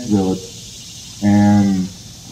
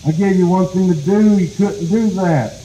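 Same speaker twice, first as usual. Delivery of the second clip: exasperated scolding; 6 semitones higher than usual. Acted. Possum scolds rabbit for failing.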